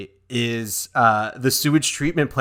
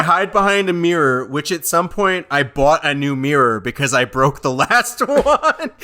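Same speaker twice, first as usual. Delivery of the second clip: laughing mock Harry; 2 semitones higher, 4 dB louder than usual.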